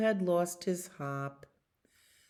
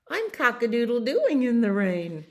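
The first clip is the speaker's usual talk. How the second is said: crowing rooster; 7 semitones higher, 7 dB louder than usual. Acted. Rooster joins the song.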